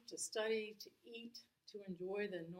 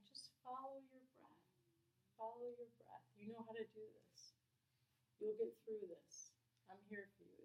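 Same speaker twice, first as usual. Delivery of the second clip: soft kind whisper; 3 semitones higher, 5 dB quieter than usual. Retold or imitated. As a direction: soothe like a kind voice calming someone. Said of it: "very soft whisper, kind voice".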